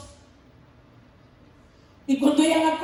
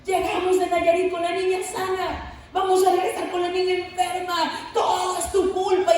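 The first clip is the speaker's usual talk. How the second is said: angry shouting; 3 semitones higher than usual. Retold or imitated. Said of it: "Mamá empezó a gritar".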